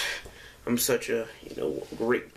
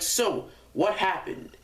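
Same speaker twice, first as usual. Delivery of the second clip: lightly voiced teacher, slow and higher; teacher questioning; 5 semitones higher than usual. Teacher questions the boy in tears, slow, lightly acted question. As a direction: imitate a teacher asking, drawn out. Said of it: "she's all like".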